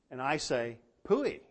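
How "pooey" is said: scoffing. Real, not acted. Dismissing the commentators' alloy theory.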